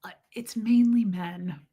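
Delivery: unvoiced whisper; whispered aside. Real, not acted. Confiding to chat, a whispered aside. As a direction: whisper it as a secret.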